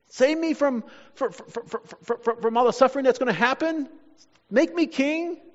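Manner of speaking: stammering on "from", then a high questioning finish; incredulous mock plea. Preacher imagines Jesus begging to escape suffering, in an incredulous mock plea. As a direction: act out a faltering plea as an unthinkable question.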